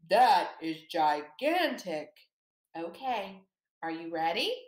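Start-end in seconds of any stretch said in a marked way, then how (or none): 0.1-2.1 That is gigantic lower and slower, drawn out big. Shown as a demonstration. Teacher showing the class the gigantic answer: low and slow. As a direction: make it sound huge and heavy. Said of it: "very large, you're gonna say".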